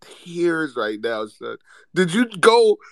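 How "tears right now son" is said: whisper. Real, not acted. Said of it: "I'm laughing".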